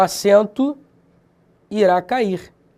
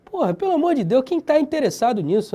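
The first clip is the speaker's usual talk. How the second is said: higher-pitched comic rant; hammed-up exasperation; exasperated; 5 semitones higher than usual. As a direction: protest a pointless rule. Exasperated rant about pointless rules.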